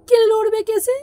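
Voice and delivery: loud, high incredulous outburst; exasperated retort. Acted. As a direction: throw the question back loudly. Exasperated retort to suing advice. (চড়া গলায় বিরক্ত পাল্টা প্রশ্ন)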